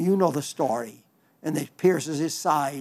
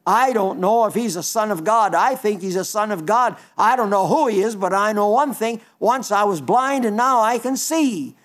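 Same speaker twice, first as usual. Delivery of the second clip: raised, insistent voice of a man fed up with questions; exasperated; 4 semitones higher, 4 dB louder than usual. Retold or imitated. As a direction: push back hard, fed up and certain. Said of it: "he was exasperated".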